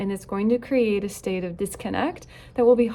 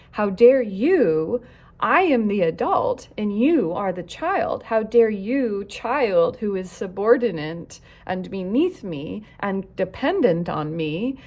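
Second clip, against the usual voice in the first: indignant parent; 3 dB louder than usual. Acted. Parenting coach voicing a parent's offended outrage, indignant. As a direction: demand how they dare, offended.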